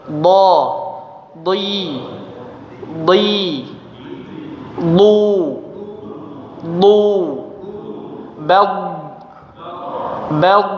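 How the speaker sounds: dhad said thick and full, mouth tense like an angry face; heavy letter dhad. Shown as a demonstration. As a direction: sound out "dhi" and "du" heavy, lips not smiling. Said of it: "huruf tebal itu seperti orang marah". (ucapkan "dhad" tebal, seperti orang marah)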